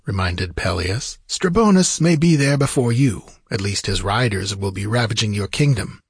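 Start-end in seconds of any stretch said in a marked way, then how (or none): 1.3-6.0 lightly voiced wizard warning a king; a hint of a theatrical counsellor's warning; cautioning sorcerer. Narrator voices Peleus reminding.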